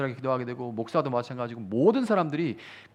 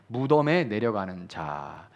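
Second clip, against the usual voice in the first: 무덤에 내려가는 자 said slowly, word by word; slow, emphatic; 5 semitones lower, slower than usual. Shown as a demonstration. (천천히 또박또박)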